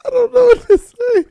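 ordinary talk, nothing marked

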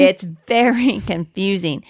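slow, laughing through the words. Real, not acted. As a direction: crack up mid-sentence. Repeats the line, laughing.

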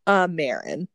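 Marin said as MAIR-in; Marin, rhymes with Karen; correct pronunciation. Shown as a demonstration. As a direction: Marin with the vowel of air. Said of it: "how would you say it?".

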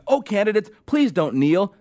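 lightly hammed-up begging; mock begging. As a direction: imitate anchors pleading with candidates. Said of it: "they had to beg the candidates".

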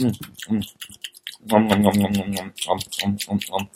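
low, soft nom-nom chewing sounds; mock chewing noises. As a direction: smack lips like eating something tasty. Pretends to chew on podcast.

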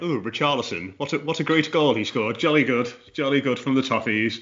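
lightly put-on posh English accent; mock posh accent. Co-host imagining the Scouse presenter on air, mock posh accent. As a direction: play at a jolly-good posh commentator. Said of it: "I can't put on a posh voice".

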